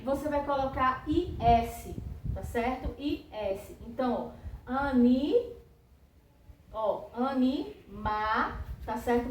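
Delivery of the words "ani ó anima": "anima" drawn out slowly, cut before the L; slow teacher segmenting; slow word splitting. Shown as a demonstration. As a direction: break "animal" down slowly for the class. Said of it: "Você copia até o ma".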